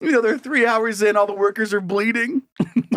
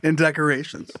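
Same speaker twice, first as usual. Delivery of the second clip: headline read; 3 semitones lower than usual. Shown as a demonstration. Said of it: "Here's what it said".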